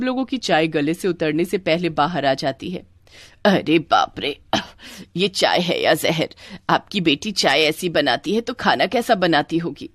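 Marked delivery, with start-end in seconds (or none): 3.4-9.9 lightly voiced disapproving matchmaking elder; a hint of a haughty in-law turning them down; offended groom's mother. Groom's mother rejecting the bride's family, mildly indignant.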